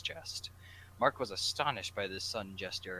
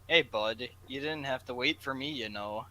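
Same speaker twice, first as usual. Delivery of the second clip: Jack's voice; 4 semitones higher, 6 dB louder than usual. Acted. Jack voiced, louder.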